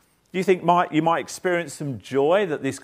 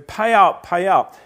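higher, louder hammed-up "pay up"; mock furious demand; 5 semitones higher, 8 dB louder, slower than usual. Preacher voicing the servant choking his debtor, loud and demanding. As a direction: bark it like a thug squeezing a debtor. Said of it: "he starts choking this guy".

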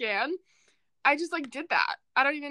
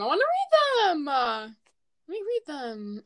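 much higher, pleading repeat; whiny insistence; 6 semitones higher than usual. Real, not acted. Podcaster pleading to read the DMs, higher whine.

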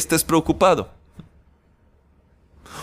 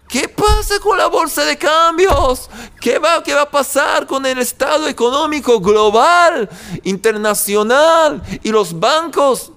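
mock panicked shout; 7 semitones higher than usual. Preacher mocking worry over global markets, in a mock panicked shout. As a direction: cry out like a frantic investor.

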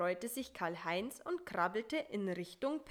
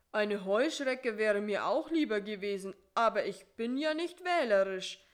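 lightly voiced Karl-Heinz, louder than narration; Karl-Heinz, hungry spider; 6 dB louder than usual. A narrator's reading. Spider answering about his captured meal, lightly voiced and emphatic. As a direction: give the spider a slightly louder, insistent voice.

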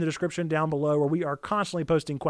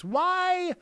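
emphatic question; 13 semitones higher than usual. Real, not acted. Rhetorical question in sermon close.

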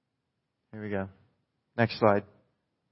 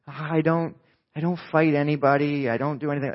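mouse-like Christian. Retold or imitated. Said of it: "They talk like a mouse".

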